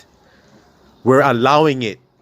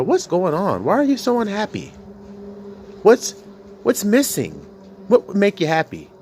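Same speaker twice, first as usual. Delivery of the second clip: imitating therapist; 8 semitones higher than usual. Preacher voices gentle child therapist.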